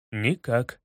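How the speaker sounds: low, resigned answer; sad reply. A narrator's reading. Holmes sadly answering Kubatai's question. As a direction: let it fall sadly. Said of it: "грустно ответил мой друг".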